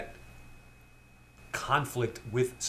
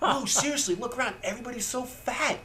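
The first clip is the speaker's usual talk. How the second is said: put-on much higher, laughing child voice; a kid insisting, giggling through it; little kid voice; 11 semitones higher than usual. Retelling the movie to his co-host, a laughing high kid voice. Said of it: "And the little kid goes".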